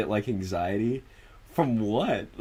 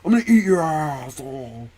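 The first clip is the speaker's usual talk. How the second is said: high, loud joking outburst; hammed-up trash talk, starting high and loud; playful mock insult; 6 semitones higher, 6 dB louder than usual. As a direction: yell it as over-the-top banter. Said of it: "nobody is serious when they're like".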